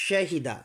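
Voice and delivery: শাহিদা opening on a clear "sh"; teacher's careful "sh" in শাহিদা; model sh pronunciation. Shown as a demonstration. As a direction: say শাহিদা with a hushing first consonant. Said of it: "এভাবে উচ্চারণ করবেন".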